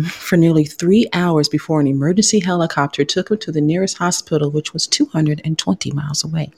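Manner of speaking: reading it like a news anchor; lightly done newscast read; news reporter voice. Acted. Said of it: "Get my news reporter voice on here".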